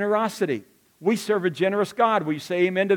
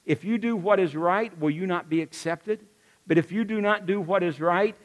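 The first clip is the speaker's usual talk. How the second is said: Star Wars voice. Retold or imitated. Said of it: "you remember the Star Wars thing?".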